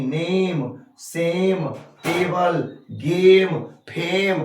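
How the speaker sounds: each word alone, its ए sliding towards ई as in नेम; vowel glide demo. Shown as a demonstration. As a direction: draw out the ए-ई glide in नेम, सेम, गेम, फेम. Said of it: "इसी sound का use करके". (नेम, सेम में ए-ई को खींचकर)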